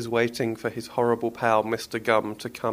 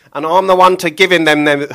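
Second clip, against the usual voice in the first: loud higher butcher voice that stalls; second fluffed take; 6 semitones higher, 11 dB louder than usual. Acted. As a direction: stall on the repeated word. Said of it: "take that again".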